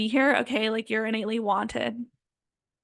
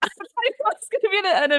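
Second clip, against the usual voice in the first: laughing; 10 semitones higher, 4 dB louder than usual. Real, not acted. Laughing about intense emotional experience.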